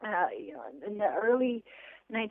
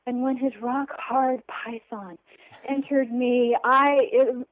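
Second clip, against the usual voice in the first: mock romance novel; 2 semitones higher, slower than usual. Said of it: "romance novels, and we read as young ladies".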